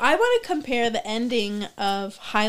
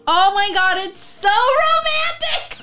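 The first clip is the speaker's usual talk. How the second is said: swooning squeal, slow and high; gushing; 12 semitones higher, 8 dB louder, slower than usual. Pretend. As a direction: melt over how romantic it is. Gushing over their romance ending.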